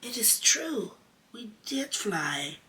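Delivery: whispered high, slowing down; half-asleep, mumble it; sleepy mutter. A narrator's reading.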